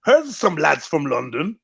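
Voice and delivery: lilting put-on Irish accent; mock Irish accent. Locals hearing of lads from London, mock Irish accent. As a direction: play a curious local with a rough Irish accent. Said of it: "Why have they turned Irish now?".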